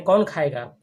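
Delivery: कौन खाएगा asked with emphasis on कौन; asking, stress on कौन. Shown as a demonstration. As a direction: ask कौन खाएगा, leaning on कौन. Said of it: "ये पूछ रहा है".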